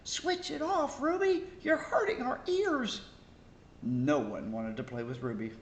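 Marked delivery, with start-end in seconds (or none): 0.0-3.0 put-on high, louder protesting kids; children shouting. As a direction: yell back at her together. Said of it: "They all turned around and shouted".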